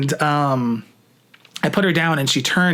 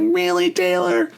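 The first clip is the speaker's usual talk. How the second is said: surprised; slower than usual. Retold or imitated. Disbelief at Taylor's praise.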